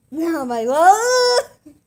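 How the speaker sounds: loud slow laughing oh my God. Real, not acted. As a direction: burst out laughing. Laughing fit.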